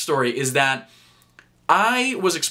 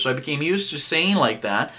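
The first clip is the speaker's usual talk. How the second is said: normal talking voice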